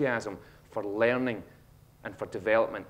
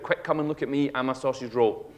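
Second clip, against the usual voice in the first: mock shout. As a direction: call out like a kid showing off. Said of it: "rolled yourself up and shouted".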